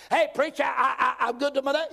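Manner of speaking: high, halting self-justification; mock pleading objector. Churchgoer to preacher claiming to be good, pleading.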